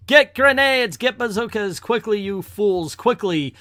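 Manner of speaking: high, urgent villain yell; yelled orders. Acted. Warlord orders his men to fetch weapons, yelling. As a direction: yell frantic commands at your men. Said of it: "he yells".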